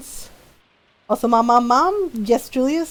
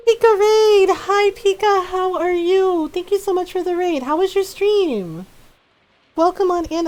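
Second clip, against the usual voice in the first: excited greeting; 8 semitones higher than usual. Real, not acted. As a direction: cheer the raid in. Greeting a raiding streamer.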